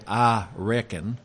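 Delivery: "I reckon" said slowly in a light Texan drawl; a quick Texan "I reckon" with a lifting end; Texan accent. Shown as a demonstration. Teacher likening Paul's phrase to Texan speech, light Texan accent. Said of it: "as in Texan you'd say".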